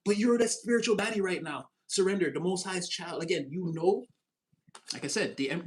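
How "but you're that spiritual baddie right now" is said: high, put-on sassy slang. Reader calling viewer a spiritual baddie, sassy voice. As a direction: play the cool bestie. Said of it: "I don't even talk like that".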